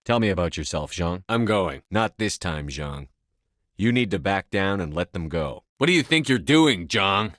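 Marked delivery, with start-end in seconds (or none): 5.8-7.3 louder, sharper confrontation; angry challenge. Acted. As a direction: call him out hard. Confronting Zhang over hostages.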